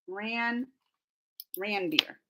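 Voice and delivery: "ran beer" with a flat a and a quiet practice tone; practicing ran. Shown as a demonstration. Streamer practicing a name aloud, soft flat a. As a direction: rehearse "ran beer" softly. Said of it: "It's not run".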